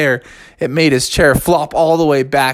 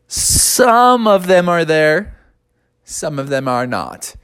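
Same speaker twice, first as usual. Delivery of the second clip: hesitant friend; 3 semitones higher, slower than usual. Acted. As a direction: break the bad news gently. Friend gives bad news.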